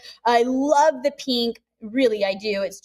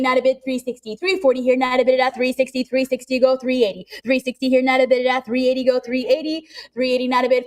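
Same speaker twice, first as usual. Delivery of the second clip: rapid auction chant; calling bids like an auctioneer; faster than usual. Real, not acted.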